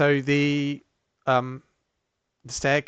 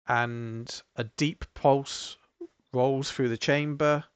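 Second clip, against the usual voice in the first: slow, measured scene-setting with long pauses; game master narration; slower than usual. Acted. Game master leads players up a glowing stairway, measured narration. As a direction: unfold the scene piece by piece, unhurried.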